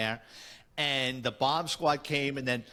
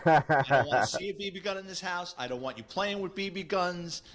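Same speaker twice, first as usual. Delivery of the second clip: forbidding father; 4 semitones higher than usual. Retold or imitated. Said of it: "our father forbade us".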